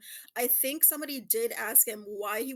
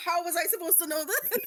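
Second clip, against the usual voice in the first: mock-exasperated, slightly higher; imitating exasperation; 5 semitones higher, 3 dB louder than usual. Host quoting her exasperated co-player over a quiz question, mock-exasperated. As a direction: lightly protest as the exasperated friend. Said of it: "Coco look, sounds exasperated".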